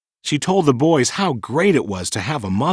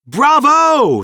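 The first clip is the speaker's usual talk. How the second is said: high excited cheer; 12 semitones higher, 5 dB louder than usual. A narrator's reading. Children cheering Peter's rescue, loud and high. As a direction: shout it out in joy.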